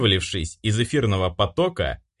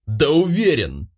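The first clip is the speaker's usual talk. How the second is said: angry yell; 6 semitones higher than usual. A narrator's reading. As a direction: yell it back in anger. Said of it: "заорал я".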